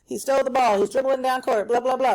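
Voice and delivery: light mock play-by-play call; imitating a TV sports commentator calling the game; sportscaster. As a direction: sound like a game announcer, lightly. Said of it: "sports show ... they're saying".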